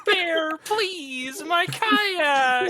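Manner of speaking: high, pleading cry; scaring off a bear. Acted. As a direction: beg the bear, half crying.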